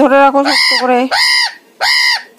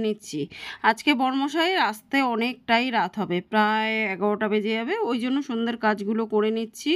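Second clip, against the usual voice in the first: hushed evening talk; 11 dB quieter than usual. Real, not acted. Evening update to viewers while daughter studies, hushed. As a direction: keep it hushed, daughter is studying.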